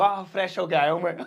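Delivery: giggling through a silly Indian-English line; mocking laugh through the words; laughing mock quote. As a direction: tease the phrase while laughing. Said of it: "fresh बोलते हैं potty करके आने को".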